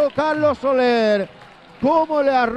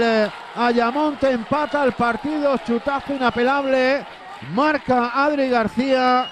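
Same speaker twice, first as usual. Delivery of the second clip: excited goal call; 3 semitones higher than usual. Real, not acted. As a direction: call the equaliser with lift. Equalising goal called.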